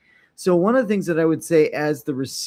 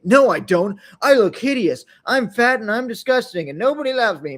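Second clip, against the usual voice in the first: mock self-pity; 5 semitones higher, 3 dB louder than usual. Mock self-deprecating reply.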